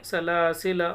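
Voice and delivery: "सलासिला" with long middle ला and short last ला; unstretched ending. Shown as a demonstration. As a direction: hold only the middle of "सलासिला". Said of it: "इस तरीके से पढ़ेंगे". ("सलासिला" का आख़िरी ला छोटा)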